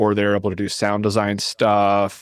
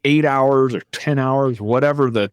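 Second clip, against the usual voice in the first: higher-pitched mock panic, acted out; freaking out; 4 semitones higher than usual. Artist panicking on the studio shot clock, freaking out. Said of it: "they start freaking out. They're like".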